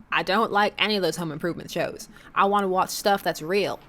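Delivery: badly faked cartoon Southern accent; lightly hammed-up Southern accent; fake Southern accent. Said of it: "my atrocious fake X-Men nineties cartoon level accent".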